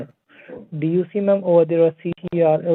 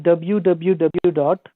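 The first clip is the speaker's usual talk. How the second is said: slow, deliberate dictation; dictating slowly; much slower than usual. Real, not acted. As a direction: spell it out slowly for the caller. Agent dictating web address.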